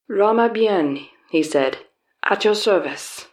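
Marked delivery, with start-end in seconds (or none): 0.1-1.1 put-on slow, lightly done Southeast Asian accent. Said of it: "my attempt at a generic Southeast Asian accent". 2.2-3.3 put-on Southeast Asian accent. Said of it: "my attempt at a generic Southeast Asian accent".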